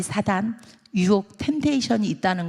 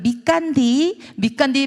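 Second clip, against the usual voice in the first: higher Jeolla lilt; Jeolla dialect; 4 semitones higher than usual. Acted. Jeolla seller admitting a loss, lilting dialect. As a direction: stretch the ending in Jeolla dialect. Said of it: "전라 사람들은".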